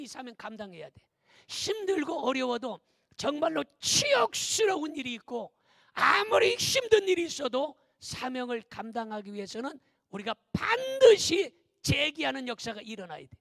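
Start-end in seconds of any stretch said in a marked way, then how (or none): 1.5-13.4 loud, emphatic exhortation; impassioned preacher urging the congregation; forceful preaching. Real, not acted. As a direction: drive the key words home at full volume.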